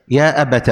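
"أبت" said abata; ta with fatha. Shown as a demonstration. Teacher repeating the second form, "أبت" said abata. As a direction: end "أبت" on a short open a. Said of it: "بفتح التاء".

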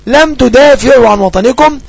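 slow, clear dictation of the example. Shown as a demonstration. Teacher giving students an example sentence, slowly. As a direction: dictate it word by word. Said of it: "نقول لم أداة".

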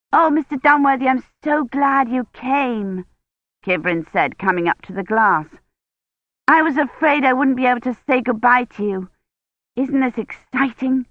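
put-on eager young historian greeting her mentor; a lightly voiced excited girl; bright young Kivrin. A narrator's reading.

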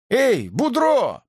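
high, slow call across the yard. A narrator's reading. Old man calling Boudreau over, slow and high. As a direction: hail him from a distance. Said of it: "позвал старый".

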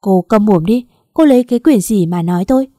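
loud, domineering rebuke; angry outburst. Acted. Husband tells wife to shut up, angry outburst. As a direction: silence them, then stake a forceful claim.

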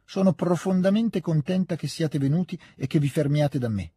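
put-on old lady's welcome. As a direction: welcome them a touch grandly. Hostess welcomes the Rostovs. (accoglienza solenne della padrona di casa)

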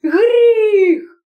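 high, loud outraged cry; husband crying out at the sin; shouted sin. Acted. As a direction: hurl the word in outrage. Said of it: "кричав прокурор".

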